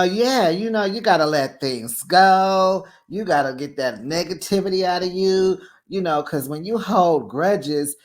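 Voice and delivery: mock wise advice, slowing at the end; lightly voiced preachy cast member. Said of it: "Jacqueline gonna say".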